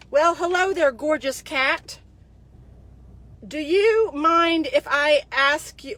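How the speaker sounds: slow, hammed-up sleazy greeting; mocking a creepy flirt. Reading the soldier's flirty message aloud, slow and mocking. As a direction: stretch it out like a cheesy pickup line. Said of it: "here's the message he sends me".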